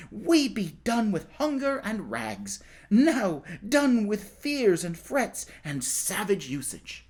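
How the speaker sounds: a hint of a glad, eager boy; hopeful boy. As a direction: dream aloud of ending hunger. Tom dreams aloud joyfully.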